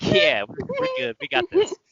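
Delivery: squeaky high falsetto, bluffing; high fake-casual reassurance; mock breezy confidence. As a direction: pitch way up like a nervous fib. Faking confidence to ski guy.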